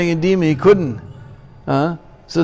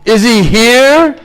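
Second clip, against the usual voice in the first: slow, loud and higher, furious; raging demand; 7 semitones higher, 7 dB louder, much slower than usual. Acted. Demon king daring his son's god to appear, raging.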